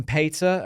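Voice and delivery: "pizza" said as PAYT-suh; Scottish pronunciation. Retold or imitated. Quoting someone in Scotland, "pizza" as PAYT-suh. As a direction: imitate a Scot's "ay" vowel in "pizza". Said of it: "that was one where someone's like".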